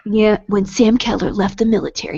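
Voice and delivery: dramatic book-blurb narration; storytelling voice. Acted. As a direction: read it like a movie trailer. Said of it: "I gotta do the good voice".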